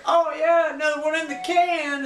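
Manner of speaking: high, loud hammed-up cheer; mock excitement. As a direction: imitate a pop star whooping it up. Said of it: "and she's like".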